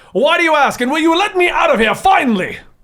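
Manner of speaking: high, shouted in-character voice. Playing a character locked in a cage, asking to be let out: shouting in character. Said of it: "Why are you shouting at us?".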